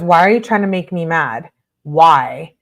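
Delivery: mock exasperated demand. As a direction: read it like a fed-up girlfriend. Acted annoyed girlfriend's text.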